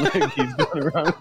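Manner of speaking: words breaking up into laughter; real laughter. Real, not acted. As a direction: crack up while picturing your own joke. Cracks up at own joke.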